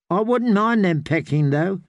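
a hint of a keen child king; eager young boy. Young king asking his mother to take him to court, lightly boyish.

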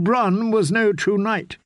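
"Bronn" said high and slow in a shaken lady's voice; shaky high lady, slow on "Bronn was no true knight"; distraught lady. Acted. Felice quotes, stammering.

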